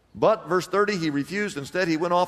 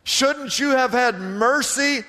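higher, lightly voiced stern master; angry master; 6 semitones higher than usual. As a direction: scold him as the wronged master. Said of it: "And in anger".

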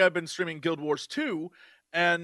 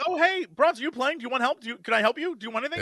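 eager helpful friend; 5 semitones higher, faster than usual. Retold or imitated. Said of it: "we would be like".

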